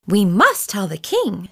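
slow, resolved hen voice; a hen deciding firmly what to do; determined hen. Acted. Henny Penny to Chicken Little, slow and resolved. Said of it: "she said".

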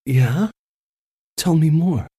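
light, eager, teasing back; delighted. A narrator's reading. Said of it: "her delight at his teasing".

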